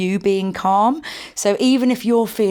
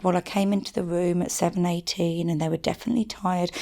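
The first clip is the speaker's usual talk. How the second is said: softer, measured, calm retelling; really calm voice; 5 dB quieter than usual. Retold or imitated. Parent explaining bedtime to the coach, calm lowered voice. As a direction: imitate a parent keeping the voice down. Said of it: "in a really calm voice".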